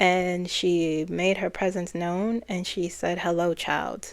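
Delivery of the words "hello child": even, booming put-on voice. Retelling what a presence said during channeling: imitating an even, booming voice. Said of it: "her tone was even, and it felt booming".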